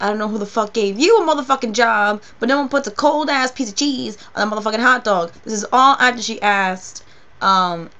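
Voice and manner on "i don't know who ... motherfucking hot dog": louder imitated rant at the drive-thru; ranting friend. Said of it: "And then she's just like".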